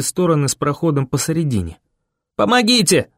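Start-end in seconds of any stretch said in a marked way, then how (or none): 2.4-3.1 high urgent call for help; crying out. A narrator's reading. Boy running to the barricade for help, crying out. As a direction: call out desperately while running. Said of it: "закричал я".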